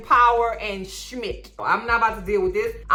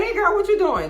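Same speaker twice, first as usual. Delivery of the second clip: mock flirty man; 12 semitones higher than usual. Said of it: "A man come out and was like".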